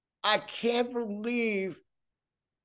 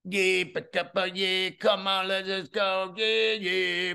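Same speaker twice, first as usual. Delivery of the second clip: Rapper-style mumble. Retold or imitated. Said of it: "in the tone of Drake".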